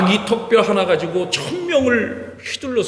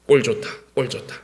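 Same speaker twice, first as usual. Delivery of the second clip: mocking jeer; 10 semitones lower, 4 dB quieter than usual. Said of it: "적군들이 삼손을 볼 때마다 비웃습니다".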